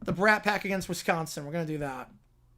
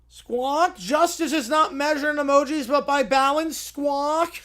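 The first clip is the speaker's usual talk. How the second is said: pelican Patty; 4 semitones higher, 3 dB louder than usual. Acted. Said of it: "that's definitely what Patty says".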